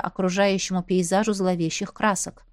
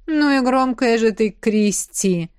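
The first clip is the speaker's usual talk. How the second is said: a hint of a man's easy tone; low pleasant male voice; 3 dB louder, slower than usual. A narrator's reading. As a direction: tease her lazily about the noise. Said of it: "приятный низкий голос".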